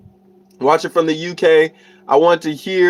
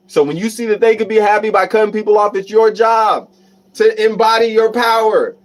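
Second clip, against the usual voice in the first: high, raised-voice pep talk; rally them with rising force; impassioned urging; 5 semitones higher than usual. Real, not acted. Streamer urging viewers to cut people off, high impassioned push.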